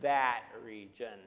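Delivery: slow, scornful "that region" with an audible eye roll; eye-roll disdain. Shown as a demonstration. Preacher showing how the Greek sneers at that region, disdainful. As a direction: sneer the words "that region" as if rolling your eyes. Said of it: "with the eye roll".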